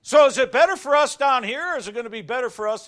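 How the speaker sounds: high and loud, driving the question; fiery preaching. Real, not acted. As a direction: rise up into the question. Preaching at full force.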